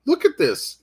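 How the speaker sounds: high, halting burst of delighted disbelief; amazed excitement. Retold or imitated. Author marveling at a teenager's werewolf sketch, amazed excitement.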